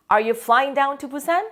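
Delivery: Are you taking a taxi to 용산? said slowly again with a rising end; slow model question, repeated. Shown as a demonstration. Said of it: "teacher models the question".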